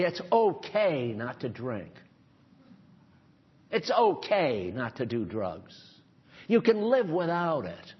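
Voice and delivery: calm reassurance. Retold or imitated. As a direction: say it gently like an alcoholic in recovery. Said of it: "like the alcoholics say".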